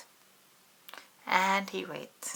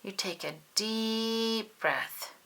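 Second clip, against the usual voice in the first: calm mom; 3 semitones higher, 3 dB quieter than usual. Acted. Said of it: "says Mom".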